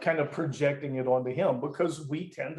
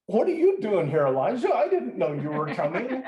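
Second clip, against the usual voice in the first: bright, higher, friendly neighbour voice; a hint of a chatty hostess greeting a guest; mock cheery host; 4 semitones higher than usual. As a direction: play it as a chirpy surprised host. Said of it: "It's not that kind of a deal".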